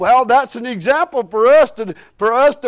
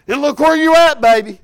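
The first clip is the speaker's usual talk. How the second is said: louder, higher, rousing; preaching exclamation; 3 semitones higher, 5 dB louder than usual. Real, not acted. Preacher rousing the congregation, louder and higher. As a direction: lift it up to the congregation.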